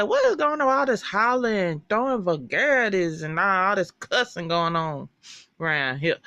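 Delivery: mock outrage at the cussing; scolding old woman. Voice from upstairs scolding.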